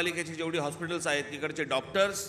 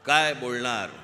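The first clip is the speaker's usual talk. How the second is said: loud call to the crowd; rally shout; 3 semitones lower, 5 dB louder, slower than usual. Real, not acted.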